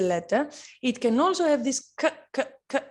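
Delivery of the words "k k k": isolated hard "k", repeated; K sound demo. Shown as a demonstration. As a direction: say "k, k, k" as separate sounds, like the start of cake. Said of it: "like cake sound".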